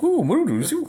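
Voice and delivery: high, mock French-accented robot; French C three P O. Mocking C three P O speaking French, high and camp. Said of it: "He's like".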